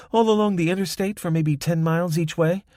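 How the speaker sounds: lightly voiced Spanish accent. A narrator's reading. Young woman's voice.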